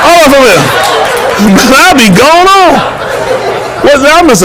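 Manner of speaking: laughing through the words. Real, not acted. Joking about living to seventy-two, laughing while talking. Laughing at his own age guess.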